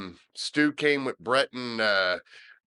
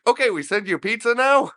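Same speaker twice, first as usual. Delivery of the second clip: higher-pitched mock Indian accent; 10 semitones higher, 6 dB louder than usual. The speaker on the prank call as the manager, mock Indian accent. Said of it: "Parsi or Indian accent".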